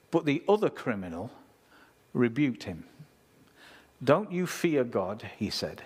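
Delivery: solemn scripture reading voice. Acted. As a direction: read the passage with weight. Reads scripture passage aloud.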